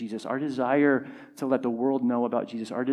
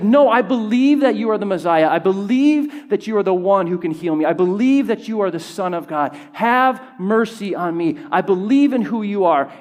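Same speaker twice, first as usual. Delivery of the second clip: raised, insistent declaration of belief; shouted plea; 3 semitones higher, 5 dB louder than usual. Acted. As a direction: plead loudly, pushing each statement of belief. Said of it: "He shouted louder".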